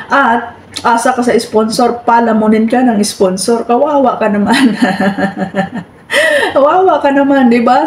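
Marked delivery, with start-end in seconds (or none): 5.5-7.5 mock sympathy broken by laughter; laughing mock pity. Laughing at a rival on her live stream, mock pity.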